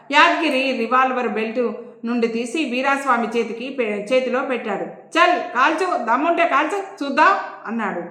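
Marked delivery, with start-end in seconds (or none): 5.1-7.3 daring taunt. Acted. Inspector taunting the man with the revolver, jeering dare. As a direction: egg him on to pull the trigger. Inspector dares him to shoot.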